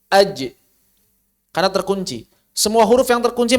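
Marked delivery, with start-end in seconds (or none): 0.1-0.4 Aj let go; released jim. Shown as a demonstration. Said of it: "dilepas lagi". (jim dilepas)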